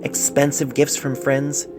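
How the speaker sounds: a touch lighter, tender reading; lightly voiced letter writer. Doctor reads the patient's love letter aloud, lightly voiced. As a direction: read the love letter as its young writer would say it. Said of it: "lightening his pitch".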